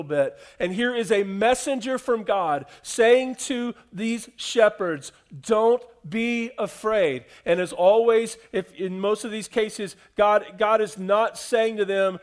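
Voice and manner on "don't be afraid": slow, gentle don't be afraid; calm their fear slowly and kindly; gentle reassurance. Retold or imitated. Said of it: "He's not scolding them".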